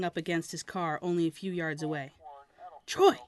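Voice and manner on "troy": much higher, loud call of the name; Troy called out higher and louder. A narrator's reading. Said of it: "I called out a little louder".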